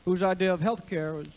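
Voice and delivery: lightly voiced Clinton with a singer's flavor; Bill Clinton. Comic doing Clinton on health care, lightly Southern. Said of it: "when I added a singer".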